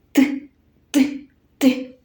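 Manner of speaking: three short "т" taps, evenly spaced; hammer's tapping song. Shown as a demonstration. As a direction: repeat "т" like a little hammer knocking. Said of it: "повторимо пісеньку молотка". (пісенька молотка: уривчасте «т, т, т»)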